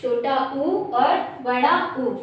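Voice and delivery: slow, spaced-out "छोटा आ और बड़ा आ", each vowel drawn out; measured teacher's recital of short and long vowel names; childhood alphabet recitation. Shown as a demonstration. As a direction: recite the vowel pairs slowly, as taught to small children. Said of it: "आपको वर्णमाला में कुछ इस तरह से पढ़ाया जाता था".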